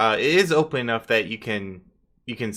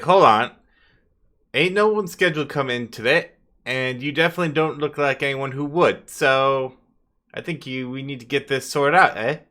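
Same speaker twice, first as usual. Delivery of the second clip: louder, firm guard halting visitors; hellhound guard; 3 semitones higher, 3 dB louder than usual. Acted. Hellhound guard stopping unscheduled visitors, firm and louder. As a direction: stop them at the door, no nonsense. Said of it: "It's like".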